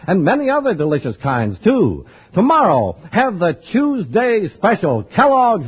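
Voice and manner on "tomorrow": usual speaking voice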